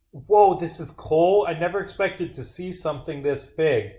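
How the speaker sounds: lightly parodying an awestruck NPC; mocking game characters. Player mocking game characters who gawk at coal, lightly hammed awe. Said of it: "Why do they all talk like this?".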